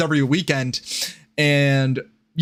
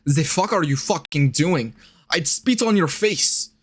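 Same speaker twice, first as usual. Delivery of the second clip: put-on buzzing Z for TH, German accent; hammed-up German accent; mock German accent. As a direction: play an affronted German. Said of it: "larp fucking German".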